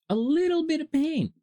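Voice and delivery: high-pitched mock minimizing; mock-dainty squeak. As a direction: tease it out in a high little voice. Repeats it in mock-small squeal.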